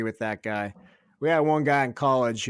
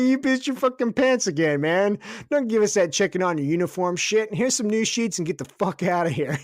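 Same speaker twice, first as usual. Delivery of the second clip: exasperated scolding; 7 semitones higher than usual. Retold or imitated. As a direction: scold him up high in exasperation. Other scribe scolding Moss.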